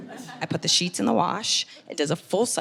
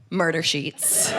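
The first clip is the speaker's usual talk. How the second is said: slow, ominous title announcement; dramatic title; 4 semitones lower, much slower than usual. Acted. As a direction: announce the show's title like a trailer. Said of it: "one-woman show called Murder Sheets".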